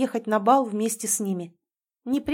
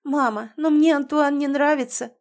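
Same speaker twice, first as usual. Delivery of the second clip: higher, louder protest; indignant; 5 semitones higher, 4 dB louder than usual. A narrator's reading. Anastasia protesting to her mother, indignant. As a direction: protest sincerely. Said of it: "совершенно честно возмутилась девушка".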